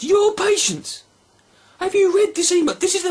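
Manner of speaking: incredulous outburst. Real, not acted. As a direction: stretch it out in disbelief. Outraged at God's words.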